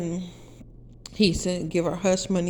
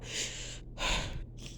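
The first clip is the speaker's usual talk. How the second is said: heavy sigh; 10 dB quieter than usual. Real, not acted. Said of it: "I gotta keep going".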